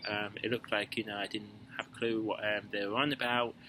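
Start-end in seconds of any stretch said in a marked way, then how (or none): none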